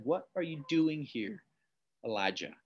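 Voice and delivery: a quiet, intimate voice of God; soft whisper. A narrator's reading. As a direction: let God's question fall to a near hush. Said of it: "a soft whisper".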